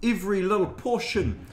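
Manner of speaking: slow, put-on Maori New Zealand accent. Shown as a demonstration. New Zealander showing the country's second accent, slow Maori accent. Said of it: "then you've got your Maori accent".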